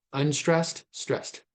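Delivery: name each beat separately, "Unstressed", pause, "stressed"; labelled syllable beats. Shown as a demonstration. Lecturer labels the two syllables for students, deliberate separate beats on "Unstressed, stressed". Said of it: "I'm overemphasizing here for clarity".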